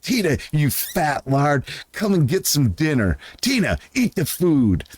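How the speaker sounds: mock sulky Napoleon calling the llama; imitating Napoleon. Man quoting Napoleon Dynamite, whiny high impression calling Tina. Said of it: "he comes over".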